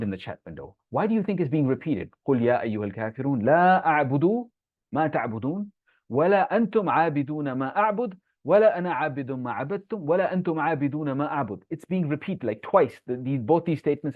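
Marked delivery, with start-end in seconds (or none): 2.3-11.6 rapid, flowing Arabic recitation of the verses; Quran recitation. Acted. Teacher reciting the surah to online students, flowing recitation. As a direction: recite the surah smoothly in one breath.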